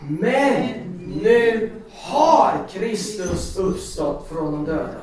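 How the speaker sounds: slow, emphatic group recitation; leading the church in a slow, joyful recitation; recited together. Shown as a demonstration. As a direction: say the verse slowly with the congregation, laughing. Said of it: "Ska vi säga tillsammans den här versen?".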